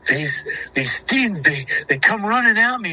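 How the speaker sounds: high-pitched, rattled retelling; imitating scared brother. Frightened little brother telling what ran at him, imitated as scared. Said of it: "scared to death".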